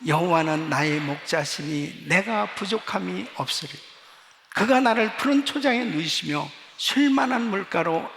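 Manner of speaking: loud, steady unison recitation of scripture; congregational reading. Shown as a demonstration. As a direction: lead the church reading aloud. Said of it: "우리 한번 같이 읽겠습니다".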